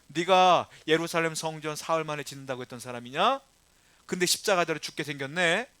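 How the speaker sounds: lightly acted scoffing question; mild jeer from the crowd; mocking. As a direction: taunt a condemned man. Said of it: "하고 비웃고 있는 거예요".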